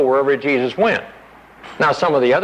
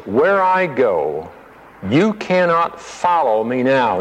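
gently; slower than usual. Acted. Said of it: "He said very, very gently".

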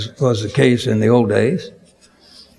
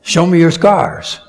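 sudden startled outburst, a bit louder; blurted out; 4 semitones higher, 4 dB louder than usual. Retold or imitated. Startled preacher blurting at the prison guard, sudden and loud. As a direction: blurt it out before you can stop yourself. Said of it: "I just blurted out".

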